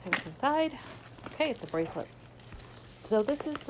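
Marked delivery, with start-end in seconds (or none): 3.0-3.7 hiccuping. Real, not acted. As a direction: voice jumps on a hiccup. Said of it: "I'm hiccuping".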